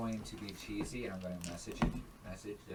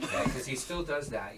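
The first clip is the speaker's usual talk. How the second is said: laughing; slower than usual. Real, not acted. Continues laughing.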